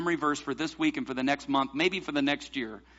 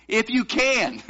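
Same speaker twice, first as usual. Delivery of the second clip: raised pitch, emphatic fall on "can"; quoted emphasis; 5 semitones higher, 3 dB louder, slower than usual. Retold or imitated. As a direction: stress on CAN, high and falling. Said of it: "I don't know if he emphasized it".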